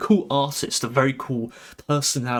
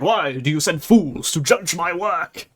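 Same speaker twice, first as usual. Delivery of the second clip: mock angry retort; 3 semitones higher, 4 dB louder than usual. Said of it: "he gets, like, mad".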